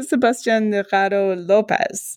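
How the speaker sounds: "Sebastian Rado Lopez" slowly, in a careful Spanish accent. Shown as a demonstration. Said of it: "my Spanish accent is obviously horrible".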